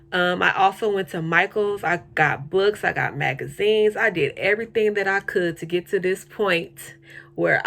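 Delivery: extra spit from new retainers; talking around new retainers; wearing a retainer. Real, not acted. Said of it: "I have my retainers in".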